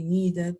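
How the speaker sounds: "needed" read as nee-det, with an e; wrong pronunciation. Shown as a demonstration. Teacher showing a forbidden form, mispronounced. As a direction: end "needed" in a spelled-out -et. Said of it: "tampoco puedo decir".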